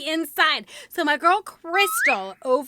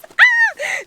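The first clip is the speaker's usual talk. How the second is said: sudden high squeal of delight; a real burst of surprise at the box; high, loud gasp of joy; excited shriek; 12 dB louder than usual. Real, not acted. Opening surprise package.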